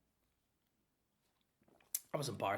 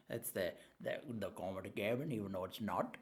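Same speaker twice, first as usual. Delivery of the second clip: lower, softer sarcastic mutter; mock low aside; 5 semitones lower, 6 dB quieter than usual. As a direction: drop the voice in mock gravity. Self-mocking deep aside.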